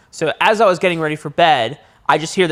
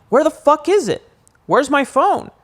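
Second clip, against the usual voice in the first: much higher, frantic yelp; frantic panic; 11 semitones higher than usual. Retold or imitated. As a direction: search for the phone in a rush of fear. Frantic search for phone.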